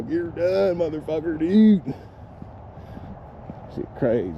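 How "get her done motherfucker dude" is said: mock white country guy. Vlogger laughing while parodying white people's sayings, hammed-up. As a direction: lightly parody a good old boy. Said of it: "white people come up with the phrases".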